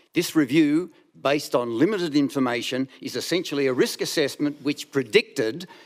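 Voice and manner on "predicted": strong stress on the word predicted. Commenting on a review to Council, stress on PREDICTED. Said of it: "and I emphasise that word".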